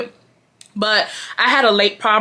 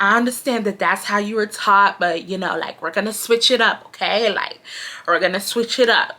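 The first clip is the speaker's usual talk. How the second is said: condescending manager. Retold or imitated. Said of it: "That's how she talk".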